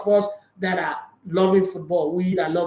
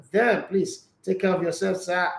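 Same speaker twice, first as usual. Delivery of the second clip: hoarse, weak husky voice; tired, husky voice after a sleepless night. Real, not acted. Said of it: "Your voice sounds so weak".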